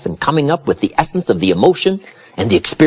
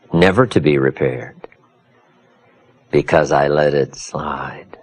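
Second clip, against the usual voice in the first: low, sinking voice of regret; regretful confession; 8 semitones lower than usual. Real, not acted. Confessing regret after the joke.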